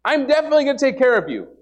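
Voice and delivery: voice of God. Pretend. God reassures the doubting believer, lightly voiced. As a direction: reassure like God promising care. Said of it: "He's going".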